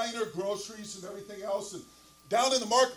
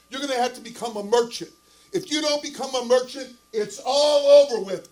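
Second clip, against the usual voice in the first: louder, higher acted ultimatum; retold tongue-lashing; 3 semitones higher, 9 dB louder than usual. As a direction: imitate a wife scolding her husband, building louder. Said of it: "keeps on just tongue lashing him".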